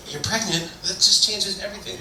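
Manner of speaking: high-pitched mock disbelief; hammed-up astonishment at big news; retold shock. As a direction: react stunned, voice jumping up. Retold shocked reaction to pregnancy news.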